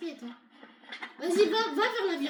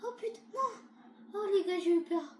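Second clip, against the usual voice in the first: startled, higher-pitched voice; real fright; 4 semitones higher than usual. Real, not acted. Player tells viewers of the scare, frightened and high. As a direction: gasp it out in fragments after a scare. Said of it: "j'ai eu la peur de ma vie".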